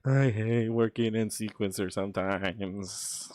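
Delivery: exasperated groan. Real, not acted. Grumbling at the editing software.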